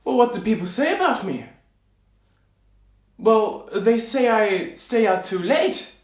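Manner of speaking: high, puzzled little man; confused tailor. Acted. Tailor asked by the king what people say, confused. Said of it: "the tailor man was confused".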